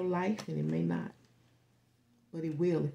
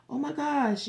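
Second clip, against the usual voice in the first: "Oh my gosh" thrown up high and louder; mock gushing; 9 semitones higher, 5 dB louder than usual. Mimicking someone's excited reaction, high and louder. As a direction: gush like an overexcited friend.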